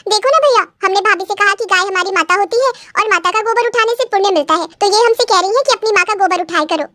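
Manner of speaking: lightly voiced, slightly high tattling sister; a hint of an aggrieved little sister; complaining sister. Sister telling on bride to her brother, mildly aggrieved.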